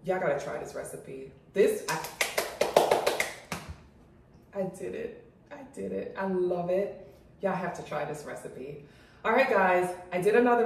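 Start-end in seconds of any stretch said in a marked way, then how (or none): 0.0-8.8 mouth full. Real, not acted. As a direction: talk around food. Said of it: "let me swallow".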